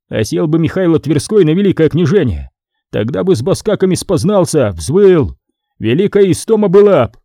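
lightly voiced exchange; dialogue voice. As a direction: argue back and forth. Dialogue continues.

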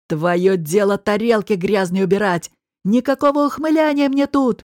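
rough, loud rebuke; yelling boss. Acted. Boss yells at the waitress to clear plates, loud and rough. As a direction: shout her down.

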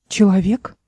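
a puzzled, rising echo of the word «Человек?»; unbelieving echo of «Человек?», lifting at the end; surprised question. Acted. Эл, startled at a man, asks in disbelief.

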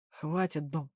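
worn out, just wants it over; tired. Acted. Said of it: "устало произнёс Дэвил".

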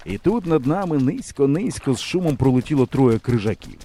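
ordinary delivery, nothing marked

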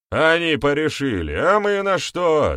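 indignant protest. A narrator's reading. Elder objects to the council's decision, indignant. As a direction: protest loudly at being left out.

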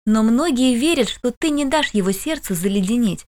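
a tiny tinkling snowflake sprite, lightly voiced; crystal little voice. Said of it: "хрустальный голосок Наари".

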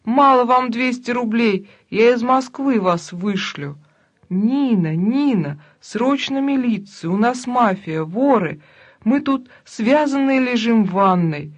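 loud, urgent shouting. Acted. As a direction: yell through the floor for help. Перекличка криком через этаж. (громкие крики)

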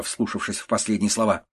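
ordinary delivery, nothing marked

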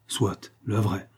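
slow, drawn-out "Soit, le vrai" in a mild mocking give-in; mock concession. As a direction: concede "Soit, le vrai" slowly, humouring him.

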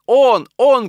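high, very loud panicked cries; screaming. A narrator's reading. Mistress accusing as she runs about, screaming. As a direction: scream the word out twice in terror. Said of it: "кричала Екатерина Егоровна".

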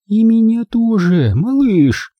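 high, slow grandmotherly voice; high-pitched, effortful old lady; Maisie puffing. A narrator's reading. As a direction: sympathise in a high, drawn-out voice. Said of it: "пропыхтела Мэйзи".

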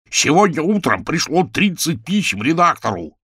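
loud, high shout. Acted. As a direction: bellow it at her. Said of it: "заорал Ч Б". (громкий крик)

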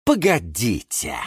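calm stop. A narrator's reading. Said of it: "спокойно отодвинул".

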